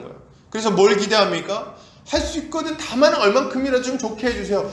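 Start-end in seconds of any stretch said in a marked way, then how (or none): 2.1-4.7 high-pitched, hedged pleading; half-believing plea. Acted. Preacher voicing a doubting father asking Jesus, high pleading. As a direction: plead for whatever small help is possible.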